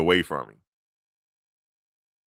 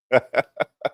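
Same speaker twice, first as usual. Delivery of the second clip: laugh; 6 semitones higher, 4 dB louder than usual. Real, not acted. Laughs at own joke.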